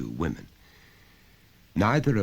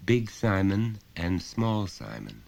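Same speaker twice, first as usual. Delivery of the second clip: put-on a child answering simply; small boy; 5 semitones higher than usual. Son answering his father, lightly voiced child.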